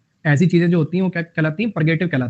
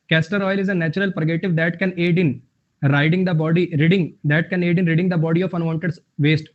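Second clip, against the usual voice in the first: slow, careful reading of an English example; much slower than usual. Acted. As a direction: read each word out slowly for the class. Reads example sentence slowly. (धीमे-धीमे उदाहरण वाक्य पढ़ना)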